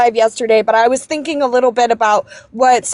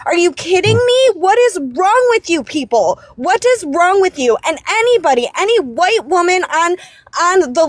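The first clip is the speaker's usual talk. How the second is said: real anger; 3 semitones higher than usual. Real, not acted. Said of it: "I'm just so angry".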